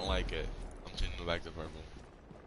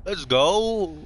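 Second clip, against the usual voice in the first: excited cheer; 10 semitones higher, 3 dB louder than usual. Real, not acted. Cheering as they get Thatcher.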